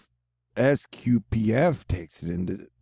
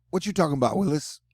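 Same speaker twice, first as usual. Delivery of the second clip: mock catchphrase; 5 semitones higher than usual. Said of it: "The gem is like".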